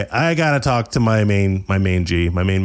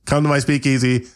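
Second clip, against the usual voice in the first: YouTuber voice; 5 semitones higher than usual. Acted. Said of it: "Hey, guys, all you bitches".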